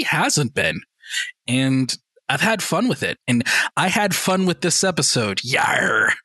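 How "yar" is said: light mock pirate growl; a hint of a hammy pirate. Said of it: "no pirate voice".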